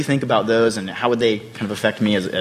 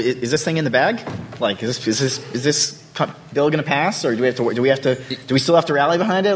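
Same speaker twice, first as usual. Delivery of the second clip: higher-pitched, audibly smiling question; smile in the voice; 5 semitones higher than usual. Real, not acted. Moderator asking the senator if the bill will pass, smiling voice. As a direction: ask it with a real smile in your voice. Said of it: "without a smile in your voice".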